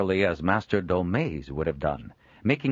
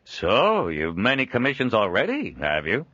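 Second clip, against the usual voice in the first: approving; 5 semitones higher, 4 dB louder than usual. Acted. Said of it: "asked approvingly".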